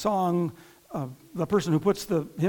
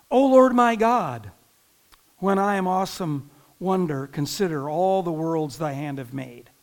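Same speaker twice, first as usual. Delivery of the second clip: reciting hymn lyrics; 2 semitones lower, 3 dB louder than usual. Acted. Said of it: "But listen to what this great psalm song says".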